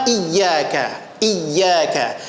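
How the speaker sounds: iyyaka with a held double y; ya tasydid. Shown as a demonstration. Teacher drills the first point, ya firmly doubled. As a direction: press and hold the "yy" in "iyyaka". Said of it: "Ya tasdid yang pertama".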